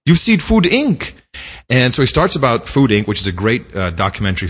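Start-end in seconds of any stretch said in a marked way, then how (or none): 0.0-1.1 imitated driver's high-pitched astonishment; high, excited mock-Jamaican questioning; startled, eager driver. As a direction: quote the driver pouncing on a shared interest. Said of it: "his head whips around. He says".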